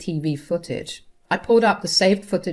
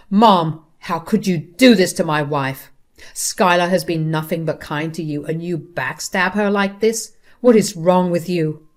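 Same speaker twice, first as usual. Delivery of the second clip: louder, angry confrontation; angry husband; 4 dB louder than usual. Acted. Husband confronts his mother over betraying his wife, angrily. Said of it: "I had never seen Noah so angry".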